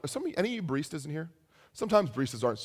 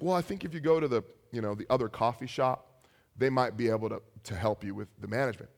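a little nervous; 4 semitones lower than usual. Retold or imitated. Nervous cashier deflecting an upset customer, tentative. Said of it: "starts getting a little nervous".

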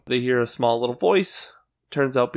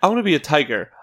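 Greg voice; 3 semitones higher, 3 dB louder, much faster than usual. Retold or imitated. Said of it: "Greg in a nutshell".

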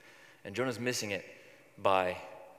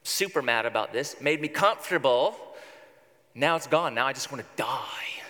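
put-on sulky teenager. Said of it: "Sounds like a teenage girl".

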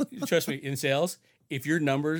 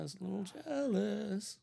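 slow sing-song taunt, climbing high; teasing; 7 semitones higher, 6 dB quieter, slower than usual. Acted. Teasing the co-host about disliking the handsome photographer, singsong taunt. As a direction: needle them playfully, drawn out and softer.

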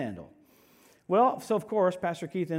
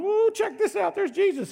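much higher, loud gushing; mock excited; 14 semitones higher, 6 dB louder than usual. Imagined Paul gawking at Jesus, hammed-up excitement. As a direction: ham up a tourist's thrill. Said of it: "Paul could have gone".

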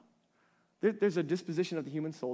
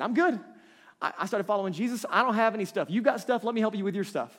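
raised, pushy mock self-assurance; louder, higher, hammed-up self-satisfaction; mock self-righteous; 5 semitones higher, 4 dB louder than usual. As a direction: send up a smug do-gooder. Mimicking a self-righteous new believer.

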